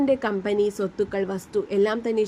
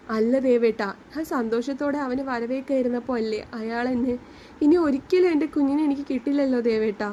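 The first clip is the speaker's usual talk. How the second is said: mild tearful voice, a touch of breaking; crying lament; 3 semitones higher than usual. Acted. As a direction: grieve for the lost baby, lightly voiced. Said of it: "അവൾ കരഞ്ഞു".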